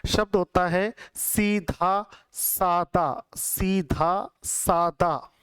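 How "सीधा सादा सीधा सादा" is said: slow teacher's model of सीधा सादा; slow careful demo. Shown as a demonstration. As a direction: say सीधा सादा slowly, sound by sound. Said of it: "फिर से एक बार मैं बता देता हूं".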